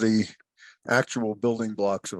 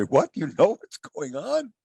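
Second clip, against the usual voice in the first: high-pitched disbelieving question; mock incredulous; 6 semitones higher than usual. Man questioning a boiling frog, mock incredulous. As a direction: play baffled disbelief, voice jumping up.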